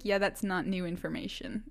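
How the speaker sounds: mock whisper, unimpressed; whispered deadpan put-down; whispered aside. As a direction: whisper it like a bored friend. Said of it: "They're like".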